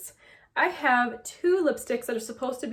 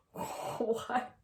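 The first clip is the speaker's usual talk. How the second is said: hushed, breathy "what?" after a gasp; retold awestruck whisper; stunned reaction; 8 dB quieter than usual. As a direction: act out quiet disbelief. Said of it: "I was like".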